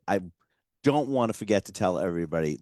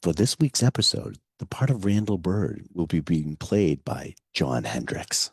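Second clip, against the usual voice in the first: announcer voice; 2 semitones lower than usual. Acted. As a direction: read it like a show announcer. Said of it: "I'm gonna do it in my announcer voice".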